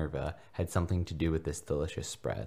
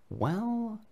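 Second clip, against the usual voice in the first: uncomfortable. Acted. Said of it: "Harry began uncomfortably".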